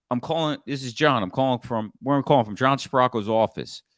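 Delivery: assured, unhurried caller; authoritative. Shown as a demonstration. Consultant calling a gatekeeper, assured and unhurried. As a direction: sound like the expert. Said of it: "acting like that in your voice".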